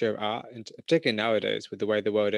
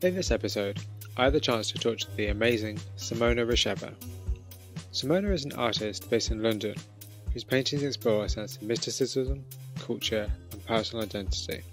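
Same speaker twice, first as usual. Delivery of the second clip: measured, scripted host introduction; podcast intro read. Acted. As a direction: welcome listeners and present the guest, deliberately.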